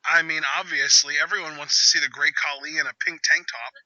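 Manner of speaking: dry mock endorsement; sarcastic. Real, not acted. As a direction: say it drily, as if obvious. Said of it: "I was being sarcastic".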